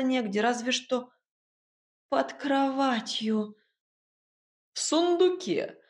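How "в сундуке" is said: mocking. A narrator's reading. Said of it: "прозвучал насмешливый голос Игната".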